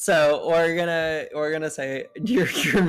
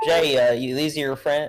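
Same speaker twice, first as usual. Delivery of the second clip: put-on southern American accent. Narrating, the speaker voices the listener's father turning to him: southern accent. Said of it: "why am I doing southern accents every time?".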